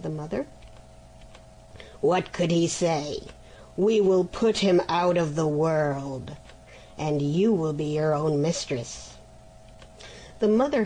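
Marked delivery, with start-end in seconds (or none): 2.0-9.1 lightly voiced griffin, coaxing and sly; a hint of a scheming beast, wheedling. Chained griffin coaxing the mother to free him, sly voice.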